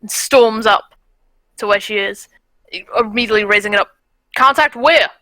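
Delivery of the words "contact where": loud, sharp demand; urgent shout. Acted. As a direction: bark the question. Soldier storms up.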